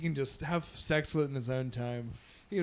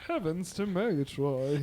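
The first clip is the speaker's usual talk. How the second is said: Snagglepuss impression; 3 dB quieter than usual.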